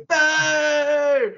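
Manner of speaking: high loud booing; crowd boo. Retold or imitated. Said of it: "they go".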